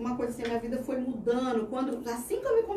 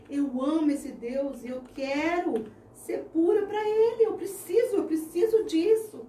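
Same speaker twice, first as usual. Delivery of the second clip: fervent retold vow; 4 semitones higher than usual. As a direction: pour your whole heart into the promise. Passionate retold vow to God.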